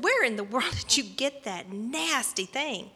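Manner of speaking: mildly appalled mother's question; disgusted mom. Retold or imitated. Mom to daughter about a filthy doll, disgusted. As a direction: scold with distaste, lightly acted.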